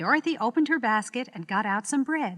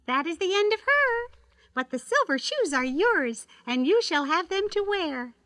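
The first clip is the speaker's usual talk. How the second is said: good witch voice; 9 semitones higher, 4 dB louder than usual. Acted. Kind witch speaks to Dorothy.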